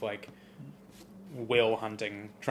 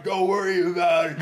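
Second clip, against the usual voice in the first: a bit higher and louder mock-casual hero line; cool reassurance; 5 semitones higher, 5 dB louder than usual. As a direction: brush off the danger like a cocky driver. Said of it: "And he's like".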